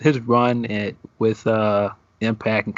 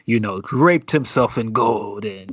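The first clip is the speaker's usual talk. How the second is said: slow, hammed-up Nigerian accent put on for a promo; mock Nigerian accent; slower than usual. Podcast host mocking a wrestler's promo, in a put-on Nigerian accent. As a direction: drawl the brag in a fake Nigerian accent. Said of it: "he just breaks out this accent".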